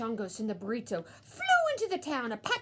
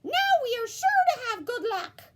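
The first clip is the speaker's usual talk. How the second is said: high, loud, laughing dog; gleeful cartoon dog laughing; 13 semitones higher, 8 dB louder than usual. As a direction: chuckle through the line. Dogs celebrate with laughter.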